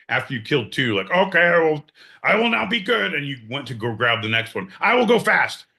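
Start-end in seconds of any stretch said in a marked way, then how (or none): 1.1-5.6 put-on high, whiny kid voice; mocking a whiny kid. Host mocking John as a kid squeezing a rabbit, high and whiny. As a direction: mimic a fretful little kid.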